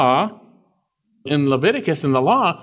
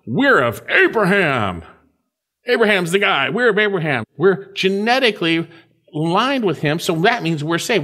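smug self-assured Jews; 5 semitones higher than usual. Retold or imitated. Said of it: "they'd say".

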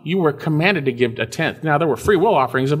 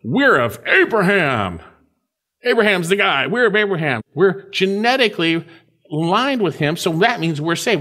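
boastful Jews; 5 semitones higher than usual. Retold or imitated. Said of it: "they'd say".

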